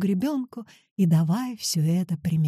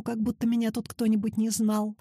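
plain reading voice

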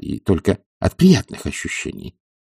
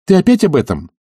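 higher, louder astonished question; 10 semitones higher, 5 dB louder than usual. Acted. Oblomov astonished that Zakhar raises the move again. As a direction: exclaim in disbelief. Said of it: "с изумлением спросил".

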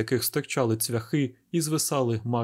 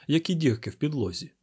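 ordinary delivery

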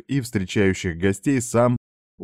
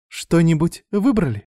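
high, sweet waitress voice; sweet smile; 9 semitones higher than usual. A narrator's reading. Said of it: "поинтересовалась та с милой улыбкой".

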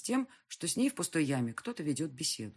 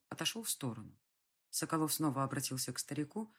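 ordinary delivery

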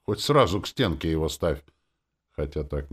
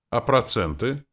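distrustful question; 9 semitones higher, 6 dB louder than usual. A narrator's reading. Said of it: "недоверчиво спросил я".

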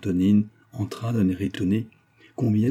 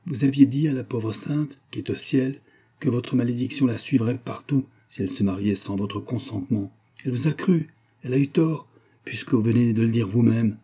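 grave nanny rebuking, raised pitch; stern old nanny; 3 semitones higher than usual. Acted. Old servant defending Dournoff to her mistress, stern. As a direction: reprove her firmly, voice lifted.

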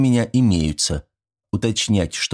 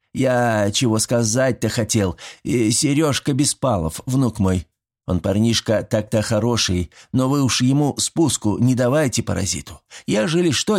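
put-on higher, chatty old village neighbor; a sly old man coaxing his neighbor; folksy old villager; 4 semitones higher than usual. Old Mitrich inviting Yegor over for fish, chatty and folksy.

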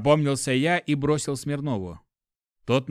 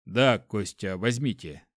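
lower, gentler giving in; calm down and relent; softened; 4 semitones lower than usual. Acted. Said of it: "смягчился шеф".

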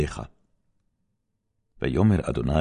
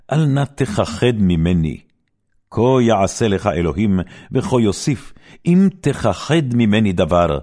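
louder, pressing and stern; insistent demand; 4 semitones higher, 5 dB louder than usual. Acted. Eli demanding the truth from Samuel, loud and stern. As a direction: press him hard to tell everything.

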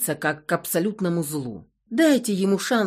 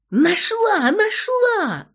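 much higher, loud triumphant cry; shouting with all her might; 14 semitones higher, 7 dB louder, much slower than usual. A narrator's reading. Klava finds the grave in the crypt, shouting with joy. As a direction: yell the find at the top of your voice. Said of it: "закричала, что есть мочи".

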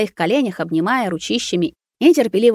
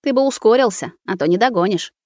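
snide, chuckling; 3 semitones higher than usual. Acted. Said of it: "посмеиваясь, ехидно заметил".

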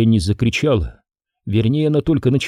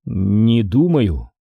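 slow, trailing hesitation; slow hesitant; much slower than usual. Acted. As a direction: start the thought and stall. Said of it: "начал он".

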